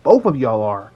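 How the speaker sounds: slow, drawn-out mock outrage, rising high on you; dramatic call-out. Roasting the creep in his own Smash or Pass video, hammed-up outrage. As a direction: point him out and drag every word like a wrestling promo.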